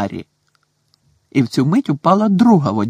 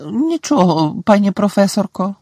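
mild groan; 7 semitones higher than usual. A narrator's reading. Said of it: "простогнала Герміона".

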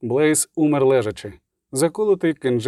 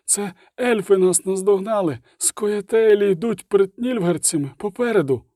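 higher-pitched soldier's warning; soldier calling a warning; 7 semitones higher than usual. Acted. Soldier warning his comrades of elves ahead, raised voice. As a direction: report the enemy in a raised voice.

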